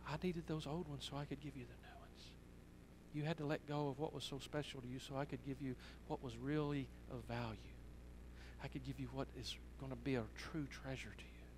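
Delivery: soft, hushed fatherly reassurance; tender. Retold or imitated. Father giving his daughter the real pearls, tender and hushed. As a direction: explain it gently, almost under the breath.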